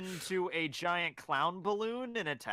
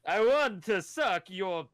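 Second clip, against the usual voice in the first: Dracula voice; 4 dB louder, slower than usual. Pretend. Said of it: "Italian accent sound like Count Dracula".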